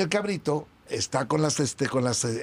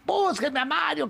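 high, drawn-out imitated order; boss calling out; 12 semitones higher than usual. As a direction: act out an impatient boss summoning staff. Boss orders staff, acted out. (orden del jefe imitada, aguda y alargada)

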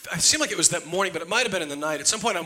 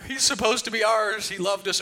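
higher, slow mock-pleading little girl's voice; imitating a tearful daughter; 8 semitones higher, slower than usual. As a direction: play the weepy kid begging for the dog, higher. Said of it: "just weeping almost".

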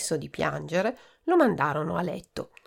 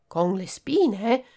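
slow, a touch of fear; frightened; 3 semitones higher, much slower than usual. Acted. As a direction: ask in mild alarm. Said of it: "domandò Fragoletta spaventata". (domanda spaventata, lenta)

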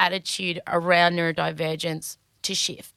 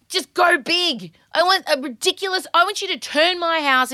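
grand extravagance; 8 semitones higher than usual. Real, not acted. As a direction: sell the fantasy big. Extravagant wish.

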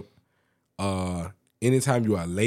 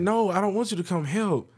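whiny coworker; 11 semitones higher than usual. Retold or imitated. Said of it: "She's like".

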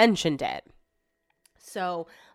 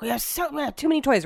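irritated; 7 semitones higher, faster than usual. Retold or imitated. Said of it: "He's getting fired up".

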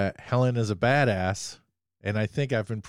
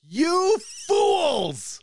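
host taunting rival teams with a villain cry; mock villain taunt. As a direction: crow it like a cartoon villain.

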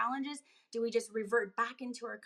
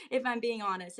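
laughing. Real, not acted. Laughs admitting she wants to yell.

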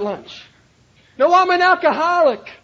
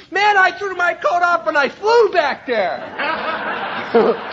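laughing through it; 2 semitones lower, slower than usual. Real, not acted. Laughing at his own story.

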